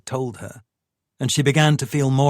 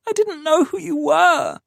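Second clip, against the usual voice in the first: shout; 4 dB louder than usual. Acted. Tamsin shouting at Paul.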